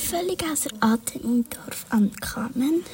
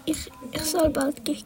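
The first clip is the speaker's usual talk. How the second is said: sobbing; 4 semitones higher than usual. Acted. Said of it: "sagt der Baum schluchzend".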